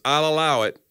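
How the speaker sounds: rule, then stretch out the caution; TV judge. Acted. Judge warning the lawyer McCoy, mock-stern. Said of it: "the judge who allows everything".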